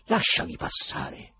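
high, loud, indignant outburst; angry shout. A narrator's reading. Ivan tries to get past the mocking choirmaster, angry. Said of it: "gridò Ivan arrabbiandosi".

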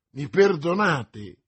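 loud, drawn-out incredulous question; slow, loud exclamation of disbelief; exclaimed question. A narrator's reading. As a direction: exclaim it slowly and loudly. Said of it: "esclamò D'Artagnan".

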